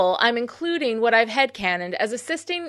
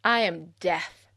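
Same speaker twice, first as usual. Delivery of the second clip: hammed-up dark sorceress threat; evil queen. Menacing mock villain intro.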